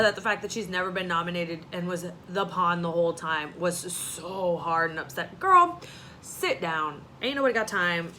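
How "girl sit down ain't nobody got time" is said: sassy call-out. Real, not acted. Vlogger scolding Nicole through the screen, sassy and loud. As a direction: call her out with attitude.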